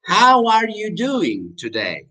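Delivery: high, slow teacher demo; slow question, falling at the end; slow model question. Shown as a demonstration. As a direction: draw out each word for learners. Slow repeat for learners.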